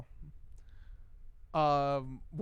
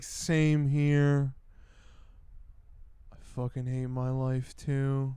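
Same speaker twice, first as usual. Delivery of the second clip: mock loud chat quote; 8 dB louder, much slower than usual. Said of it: "David R is like".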